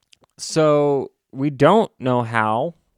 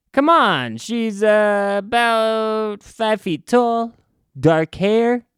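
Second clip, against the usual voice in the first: much higher, slow pleading voice; hammed-up villain posing as a cop; mock cop voice; 8 semitones higher, slower than usual. Disguised villain asking New Yorkers about the girl, high mock voice.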